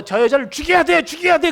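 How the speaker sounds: the crowd demanding she be stoned; mob crying for death. Acted. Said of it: "그랬어요".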